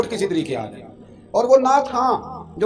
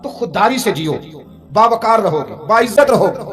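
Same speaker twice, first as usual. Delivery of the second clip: ringing promise; 2 semitones higher, 5 dB louder than usual. Acted. Preacher's closing exhortation.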